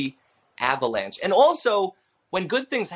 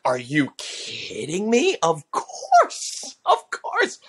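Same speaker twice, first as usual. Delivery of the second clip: eager disbelief; much slower than usual. Retold or imitated. Comedian retells leaping at the chance to do Trump, thrilled. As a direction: jump at the offer, pitch soaring. Retold eager acceptance of an offer.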